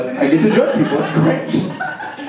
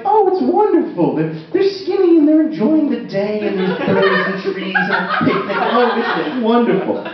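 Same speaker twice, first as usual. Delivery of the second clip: a hint of a swooning onlooker, starting much higher; dreamy passerby; 5 semitones higher than usual. A passerby admiring a skinny person lounging, lightly swooning. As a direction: lightly gush over the picnic scene. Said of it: "that same person who did that voice".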